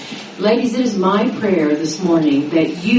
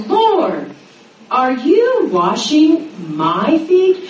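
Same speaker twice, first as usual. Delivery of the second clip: incredulous question; 5 semitones higher, much slower than usual. Shown as a demonstration. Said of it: "now Peter breaks the silence".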